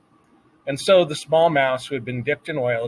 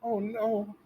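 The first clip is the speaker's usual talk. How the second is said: whispered; 9 semitones higher, 8 dB quieter than usual. A narrator's reading. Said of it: "whispered Despereaux".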